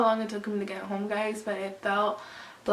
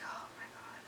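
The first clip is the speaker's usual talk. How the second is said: dreading whisper; 20 dB quieter than usual. Retold or imitated. Retold dread facing her dad.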